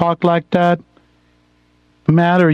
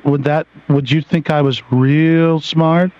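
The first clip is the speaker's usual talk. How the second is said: mock NPR voice; slower than usual. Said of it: "I'll talk slow".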